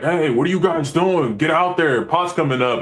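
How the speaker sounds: mild mock yell over a hailer. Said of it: "yelling at us on the hailer".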